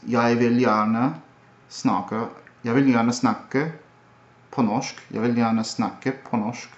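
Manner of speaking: slow Norwegian with a rise on vil; Norwegian accent. Shown as a demonstration. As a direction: lilt it the Norwegian way. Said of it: "Norwegian is".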